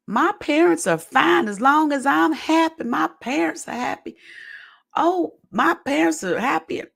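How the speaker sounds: high sing-song mock girlish voice, pitched well up; imitating Jenny. Vlogger mimicking contestant Jenny's reply, high mock girlish voice. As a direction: parody her cheerful answer in a high, light voice. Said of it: "Jenny basically said".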